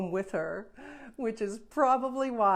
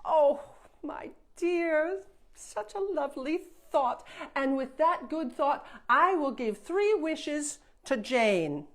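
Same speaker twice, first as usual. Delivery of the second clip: lightly voiced fairy, higher and fond; kindly fairy; 4 semitones higher, 3 dB louder than usual. Fairy praising Jane's kind offer, fond and higher. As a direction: coo over her kindness.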